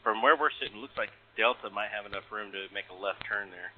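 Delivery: tinny cockpit radio call; air traffic control radio. Real, not acted. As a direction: pilot talking over the radio. Recorded pilot radio call.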